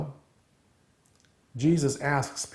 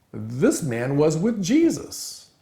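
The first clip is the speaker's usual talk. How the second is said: slow, raised, drawn-out accusation; 5 semitones higher, 4 dB louder, slower than usual. Retold or imitated. Servant girl publicly identifies Peter, mildly accusing. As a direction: point the finger, stretching the words.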